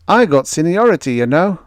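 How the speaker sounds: jovial giant shouting introductions; hearty sailor Moore. A narrator's reading. Crewman greets groggy Greg, hearty and loud.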